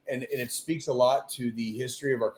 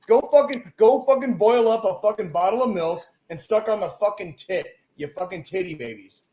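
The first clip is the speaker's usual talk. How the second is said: loud, higher, furious rant; angry rant; 4 semitones higher, 3 dB louder than usual. Real, not acted. Host rants at scared people, loud angry scorn. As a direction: tear into them, building then dropping.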